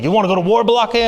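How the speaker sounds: a light nod to the Key and Peele substitute; substitute teacher skit quote. Retold or imitated. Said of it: "the famous substitute teacher skit".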